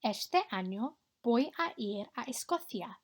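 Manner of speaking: clear, careful Spanish for the class to copy; model Spanish pronunciation. Shown as a demonstration. Teacher modelling a Spanish line for pupils to repeat, clear and careful. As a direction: say each sound so pupils can echo it. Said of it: "echo my pronunciation".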